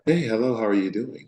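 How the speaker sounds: imitating mom's high, polite phone voice; put-on white voice. Mom answering the phone after yelling, in her white voice. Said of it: "put on what we call the white voice".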